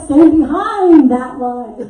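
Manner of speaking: mock the clerk yelling the order; hammed-up grouchy clerk shout; imitating a yell. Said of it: "they yell a lot".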